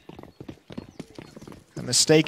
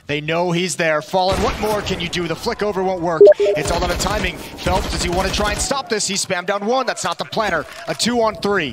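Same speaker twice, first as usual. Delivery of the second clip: excited; 5 semitones higher than usual. Real, not acted. Caster calls a tense clutch.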